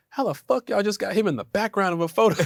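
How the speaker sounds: lightly hammed-up indignation; mock indignant commenters. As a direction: play a baffled, complaining fan. Acting out indignant online commenters.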